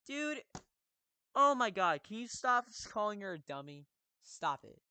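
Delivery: loud, high angry outburst; angry yelling. Real, not acted. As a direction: yell at her in frustration. Player yelling at character.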